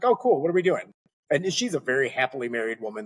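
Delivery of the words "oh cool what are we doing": bright mock-excited reply, much higher at the start; excited friend. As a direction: replay the friend's eager surprise. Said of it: "And she's like".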